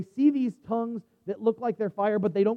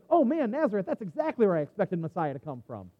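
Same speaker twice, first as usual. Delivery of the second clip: mock enthusiasm. Preacher imagining Nathanael's reply, mock enthusiastic. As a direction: feign delighted agreement.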